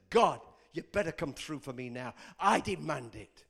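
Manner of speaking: retold angry demand, low and firm. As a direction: lay down an ultimatum. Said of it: "I actually raised my voice".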